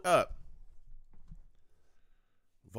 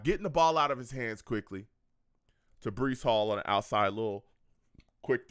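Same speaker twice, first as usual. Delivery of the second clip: hushed whisper mid play-call; breathy whispered play-by-play; 7 semitones lower than usual. Real, not acted. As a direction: drop to a whisper while calling the play. Calling the play on stream.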